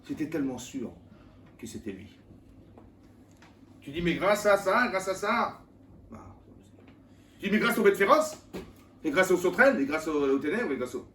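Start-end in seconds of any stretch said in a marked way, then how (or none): 3.8-5.6 higher, louder mock thanks; imitating someone who credits the cause; mock grateful voice. Preacher mimics a believer crediting the plagues, higher and louder. 7.4-11.1 higher, louder mock thanks; imitating someone who credits the cause; mock grateful voice. Preacher mimics a believer crediting the plagues, higher and louder.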